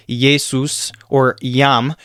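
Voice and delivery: JESUS said "yay-soos", YAM "yahm"; slowly, y sound opening Jesus and Yam. Shown as a demonstration. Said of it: "make the sound of a Y".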